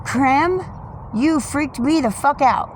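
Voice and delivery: loud, high startled cry; real shock from the bird; startled outburst. Real, not acted. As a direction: blurt it out right after a fright.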